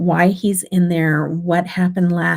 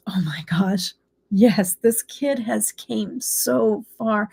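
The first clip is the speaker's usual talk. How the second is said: slow, emphatic mock amazement; retold amazement; 3 semitones higher, slower than usual. Teacher agreeing he has come far, retold amazement. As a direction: draw it out, imitating an amazed teacher.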